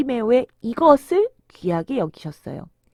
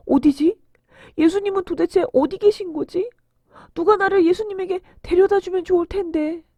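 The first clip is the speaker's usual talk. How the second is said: anxious wondering; 6 semitones higher than usual. Acted. Blind man anxiously searching for Jesus.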